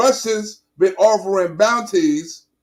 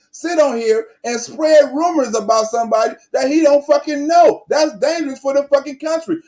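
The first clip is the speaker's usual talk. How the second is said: indignant rant; 5 semitones higher than usual. Real, not acted. Ranting at Biden on TV.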